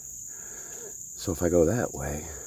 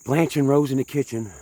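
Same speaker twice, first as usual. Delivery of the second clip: mock yell; 5 semitones higher, 3 dB louder than usual. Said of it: "and she'd yell out".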